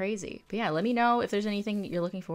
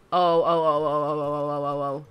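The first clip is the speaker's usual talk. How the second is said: rising alarm, then fading; repeated startled oh, louder at first; panicked oh-oh-ohs; 6 dB louder than usual. Real, not acted. Panic as something happens in game.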